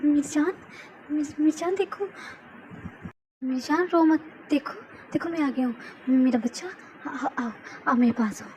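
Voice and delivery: hushing her with shaky urgency; calm her down, almost pleading; husband soothing his crying wife, a touch panicked; soothing, anxious. Acted. A singer comforts crying wife.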